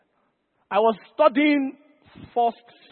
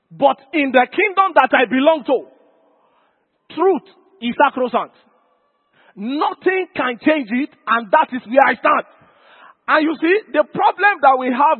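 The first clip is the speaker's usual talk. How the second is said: forceful preaching; 4 semitones higher, 4 dB louder than usual. Real, not acted. Preaches a firm declaration.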